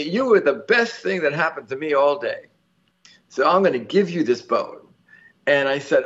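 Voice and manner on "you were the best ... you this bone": put-on slightly higher, lightly Southern old woman; imitated Southern accent. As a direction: quote her with a hint of Southern accent. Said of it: "in a very Southern accent".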